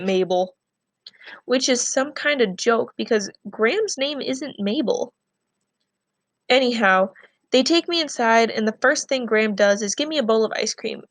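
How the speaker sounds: reading a novel aloud to the class, steady and clear; story narration. A narrator's reading. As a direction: tell the story to students as a read-aloud. Teacher reads novel chapter aloud.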